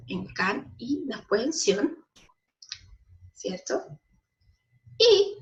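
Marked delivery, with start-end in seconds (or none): 0.3-2.0 one drawn-out syllable set apart. Shown as a demonstration. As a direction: say 'can' as a separate syllable. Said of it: "en sílabas la palabra". (sílaba separada)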